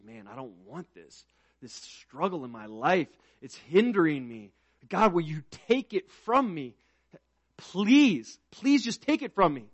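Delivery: Paul begging God to remove the thorn; pleading Paul. Acted. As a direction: beg God to take it away.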